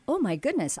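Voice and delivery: high-pitched self-quote of dismay; mock dismay. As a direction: act out your own belated "oops" moment, pitched high. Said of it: "in that I will go".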